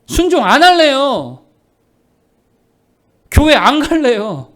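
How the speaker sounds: loud, drawn-out refusal; hammed-up stubborn churchgoer; mock defiant refusal. Acted refusal to obey God.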